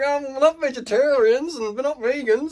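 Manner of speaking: mock the flustered parents brushing it off; defensive parent. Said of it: "And the mum and dad are like".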